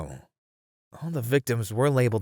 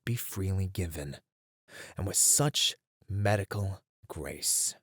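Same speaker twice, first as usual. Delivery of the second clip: hushed and ominous; 3 semitones lower, 6 dB quieter than usual. Acted. Ominous reveal of killer's method.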